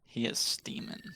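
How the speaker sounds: whispering. Acted. Echoed back in a whisper.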